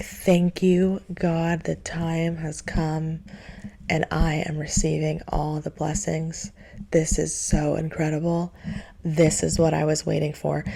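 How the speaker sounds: a hint of hushed gratitude; relieved prayer. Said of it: "a deep sigh of relief".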